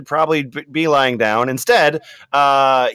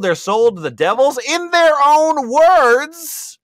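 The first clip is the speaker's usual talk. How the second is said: Latina mom voice; 12 semitones higher, 4 dB louder, slower than usual. Acted. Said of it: "more Latina Mom coming in".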